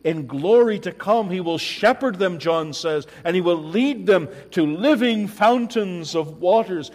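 loud, high, ringing pulpit voice; full-force preaching. Acted. Preacher proclaiming heaven's promise to the congregation, full force. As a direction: proclaim it to the whole hall.

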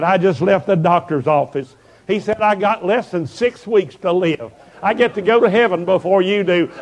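happy, excited. Retold or imitated. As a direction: imitate her overjoyed phone voice. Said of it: "Why are you so happy".

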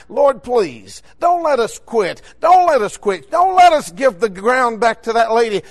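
retold urgent plea, building in force; insistent preacher's plea, each repeat pushed harder; pleading prayer. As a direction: beg God with growing insistence. Retold urgent silent plea to God.

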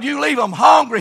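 South Carolina "hungry", said like "hongry"; South Carolina accent. Retold or imitated. Old preacher saying when you sit down, South Carolina accent. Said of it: "He's from South Carolina".

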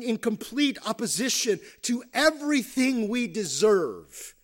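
emphatic, driving sermon delivery; preaching. Real, not acted. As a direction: preach it with rising conviction. Preaches at full voice.

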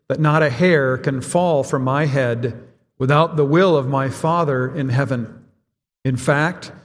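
measured, deliberate reading aloud; formal congregational reading; catechism recitation. Acted. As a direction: recite it steadily in even phrases, pausing between them.

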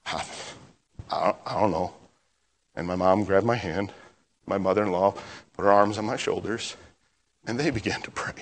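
soft, low, halting recollection; subdued. Real, not acted. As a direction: let the voice drop away, weighed down by the memory. Recalling being unable to pray.

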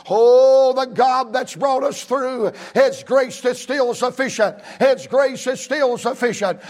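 emotional outburst. Real, not acted. Preacher overcome with emotion before his church. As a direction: let the feeling break through. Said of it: "I'm about to get emotional".

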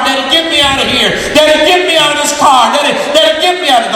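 put-on girl screaming from burning car. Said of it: "the girls inside the car screaming".

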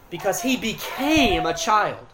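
"became" stretched slowly for emphasis; stress on became. Real, not acted. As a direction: draw out "became" to make the point. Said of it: "Here's why I'm emphasizing the word become".

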